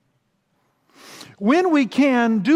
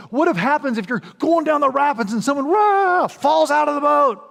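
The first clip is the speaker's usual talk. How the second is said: higher, louder guide quizzing the group; guide's question; 7 semitones higher, 5 dB louder than usual. Retold or imitated. Rafting guide quizzes the group, higher and louder. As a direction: put the test question to the rafters. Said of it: "They goes".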